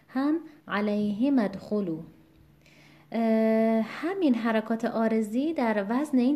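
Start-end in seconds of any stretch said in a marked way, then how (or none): 0.7-2.0 علیهم ادخلوا with "hi" stressed; alay-HI-madkhulu for علیهم ادخلوا. Shown as a demonstration. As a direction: put the weight on the ه in علیهم ادخلوا. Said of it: "یعنی بر حرف ه".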